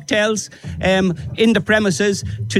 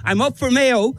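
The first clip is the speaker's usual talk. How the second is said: proud rallying cry; 4 semitones higher than usual. Real, not acted. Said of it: "You have a powerful, strong voice".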